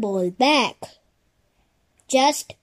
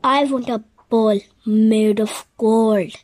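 cartoon princess; 2 semitones lower, 3 dB louder than usual. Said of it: "said the princess".

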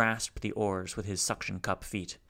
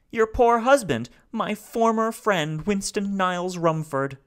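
high, loud, rasping despair; raspy robot; 11 semitones higher, 8 dB louder than usual. A narrator's reading. Grieving robot begs the family to kill him, raspy and high. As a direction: rasp it out, begging to die. Salo answers Beatrice.

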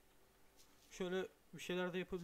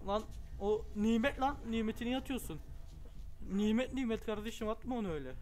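mock scolding; 4 semitones higher, 5 dB louder than usual. Real, not acted. Neighbor threw a tomato.

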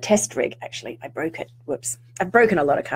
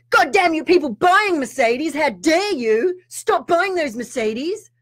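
a touch higher, slower, hammed-up scolding; mock indignation; 6 semitones higher, slower than usual. Mocking judges of Mercedes buyers, slow mock scolding. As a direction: scold car buyers in mild mock outrage. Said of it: "It's like, I don't say".

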